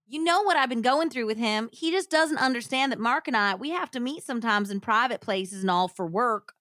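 lightly acted Southern pleading; Southern accent. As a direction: make excuses in a light hillbilly twang. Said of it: "read this in a Southern accent".

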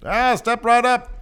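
high, loud carnival barker. Pretend. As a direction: call the crowd like a barker. Playing carnival strongman barker.

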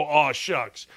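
a hint of a humble old coach; mock modest coach. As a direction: play humble like Izzo. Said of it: "we're not gonna let Izzy go".

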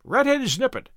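a hint of a heckling parrot; ejaculating parrot. A narrator's reading. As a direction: blurt it as a mildly squawky parrot insult. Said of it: "kept ejaculating".

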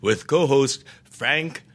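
announcer read of the show credits; podcast outro read. Shown as a demonstration. Reading the podcast sign-off on request, announcer style. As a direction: read the outro like a radio host. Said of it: someone asks whether the speaker should read this.

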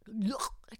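imitated strangled gag; mock choking noise. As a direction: choke as if yanked by the neck. Imitates being choked by the tulle.

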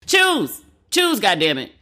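a sudden high, loud snap of frustration; exasperated outburst. Real, not acted. Host fed up with critics calling her both anti-woman and man-hating, in an exasperated outburst. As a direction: throw up your hands at impossible demands.

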